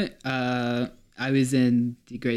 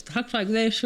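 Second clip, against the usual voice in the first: imitating a student in a high, toothless voice; high-pitched toothless voice; 9 semitones higher, slower than usual. Comic retelling of mom's student talking with teeth out, high-pitched. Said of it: "got a really high pitched voice".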